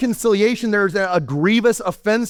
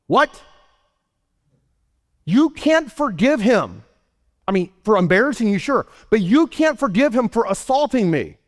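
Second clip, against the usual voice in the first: mock outrage; 4 semitones higher than usual. Retold outrage at forgiving assailant.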